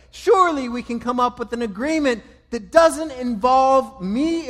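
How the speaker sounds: loud, high, anguished pleading; imagined anguished plea, loud and high; desperate crying out. Retold or imitated. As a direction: beg the Father desperately, voice straining. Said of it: "I can imagine him crying out".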